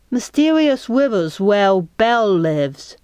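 hint of a small child's voice; small piggybacking child piping up; lightly voiced little Thumb. A narrator's reading. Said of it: "Thumb said from her piggyback seat".

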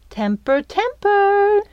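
high singsong scolding, rising on the second word; chiding. A narrator's reading. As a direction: chide playfully, lifting the pitch sharply at the end. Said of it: "she chided".

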